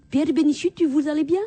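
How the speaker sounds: put-on Flemish accent. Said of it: "je dis".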